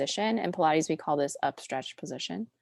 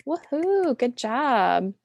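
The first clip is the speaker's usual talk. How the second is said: high, louder whoop of praise; celebratory cheer; 6 semitones higher, 5 dB louder, slower than usual. Real, not acted. Pilates teacher congratulating the class on finishing, excited. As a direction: cheer them on, pitched up.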